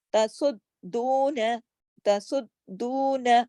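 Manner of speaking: तसुद्दून with thick स and doubled द, long दू; slow recited तसुद्दून; heavy saad, doubled dal. Shown as a demonstration. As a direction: stretch दू in तसुद्दून. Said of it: "स्वाद को मोटा भी करना है".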